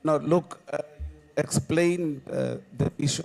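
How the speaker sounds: loud, forceful union rep; shop steward voice. Pretend. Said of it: "let me use a shop steward voice".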